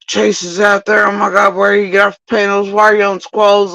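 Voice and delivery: high, panicked mock voices; imitating their frantic warnings; frantic friends. Friends panicking over the phone, high frantic imitation. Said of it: "They're like".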